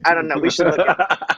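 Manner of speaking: laughing through the words; talking while cracking up; giggling as the words come out. Real, not acted. Laughing at Starbucks names joke.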